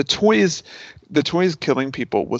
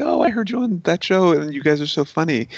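gushing fan, raised pitch; 5 semitones higher than usual. Retold or imitated. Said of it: "they'd be like".

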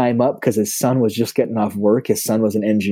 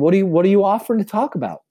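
quick, higher-pitched curious question; puzzled passer-by; 9 semitones higher, faster than usual. Retold or imitated. Passer-by asks what is on offer, puzzled. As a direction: rattle it off as a puzzled onlooker.

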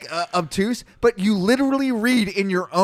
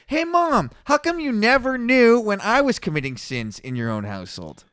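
mock confronting mom; 5 semitones higher than usual. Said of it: "Is she full of shit?".

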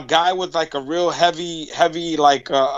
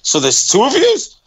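realizing there are two of them; surprised. Retold or imitated. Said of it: "they were like".

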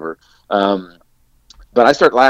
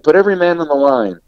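mild mock yell; 8 semitones higher, 5 dB louder than usual. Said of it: "Alec screams at us".

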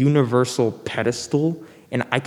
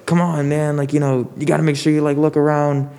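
raised scolding grandma voice, a bit higher; escalating comedy rant; 3 semitones higher than usual. Retold or imitated. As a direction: nag like an annoyed grandma. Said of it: "my grandma was like".

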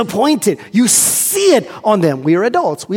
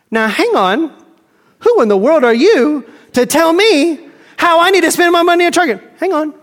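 higher, louder offended protest; indignant flesh; 8 semitones higher, 3 dB louder than usual. Acted. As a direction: bristle back at being told what to do. Flesh indignantly talks back.

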